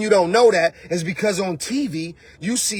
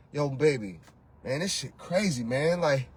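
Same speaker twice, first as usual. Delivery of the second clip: much softer, lower weary sigh-talk; tired man venting; 8 semitones lower, 9 dB quieter than usual. Pretend. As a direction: slump and vent after a hard day. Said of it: "a man who had a hard day".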